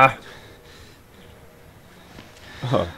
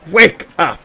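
high, loud wake-up call; 5 semitones higher, 5 dB louder than usual. Pretend. Player calls to people asleep, calling out. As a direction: call out to rouse sleepers.

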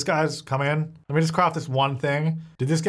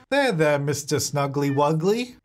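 slow soothing pet talk; calm the pet gently; soothing baby talk; slower than usual. Acted. Calming the stressed pet.

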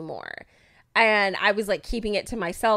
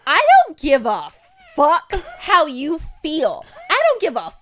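higher, louder screaming rant; furious retold scream, voice breaking; furious yell; 7 semitones higher, 6 dB louder than usual. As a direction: yell it at him, losing it. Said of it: "And I was like".

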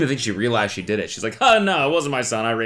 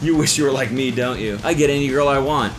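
brash bragging frat guy, laughing at you; cocky jerk. Acted. Reading the stranger's mean text as a gloating jerk. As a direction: gloat and taunt like a smug bro.

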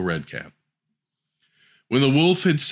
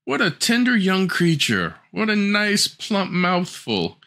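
higher, slow, savouring each word; greedy wolf; 9 semitones higher, slower than usual. Acted. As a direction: relish the thought of a meal. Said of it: "The wolf thought to himself".

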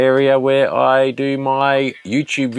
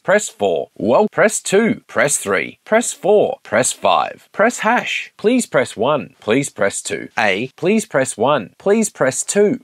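phone menu voice; 3 semitones higher, slower than usual. Shown as a demonstration. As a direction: read it like a recorded phone menu. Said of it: "that was a take".

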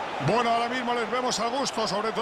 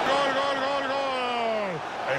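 goal shout; 2 semitones higher, much slower than usual. Acted. Goal call in match commentary.

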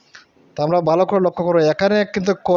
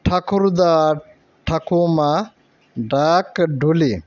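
slow reading; much slower than usual. Shown as a demonstration. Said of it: "এখানে বলা হচ্ছে".

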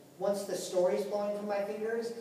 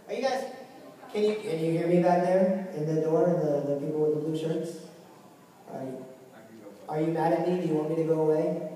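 calling out; 6 dB louder than usual. Real, not acted. Calling to people at door.

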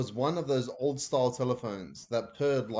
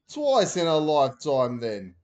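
Dad retorting; 3 semitones higher, 8 dB louder than usual. A narrator's reading. Dad voiced.

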